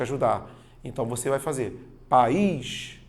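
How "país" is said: "país" as pa-ís, stress on the ís; two-syllable pronunciation. Shown as a demonstration. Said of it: "eu tenho duas sílabas".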